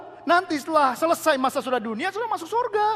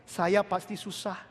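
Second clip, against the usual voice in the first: slow, quieter mopey sigh; gloomy complaint; 5 semitones lower, 5 dB quieter, slower than usual. Retold or imitated. Preacher mimicking a believer complaining of hardship, slow and gloomy. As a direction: drag it out like a whiner. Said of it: "sering kita ngomong begini".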